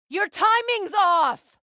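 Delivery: high, loud, drawn-out correction; slow urgent shout. Acted. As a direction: call out his mistake across the fight. Correcting ally in battle.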